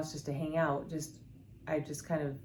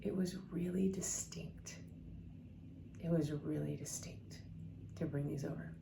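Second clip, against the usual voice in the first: teary friend; 9 dB quieter than usual. Retold or imitated. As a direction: murmur it softly as if holding back tears. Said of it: "she starts crying".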